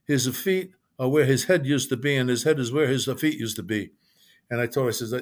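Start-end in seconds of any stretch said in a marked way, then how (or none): 0.0-3.9 put-on grandmother's lightly done Italian accent; imitated Italian-accented grandmother. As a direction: question it with a hint of an Italian accent. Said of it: "in an Italian accent".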